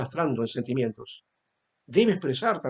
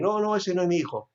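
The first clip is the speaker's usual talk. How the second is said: indifferent father; 5 semitones higher, faster than usual. Retold or imitated. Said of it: "algunos indiferentes también".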